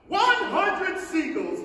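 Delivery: high, loud and slow count; triumphant shout. Acted. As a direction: call the number out proudly. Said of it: "he shouted".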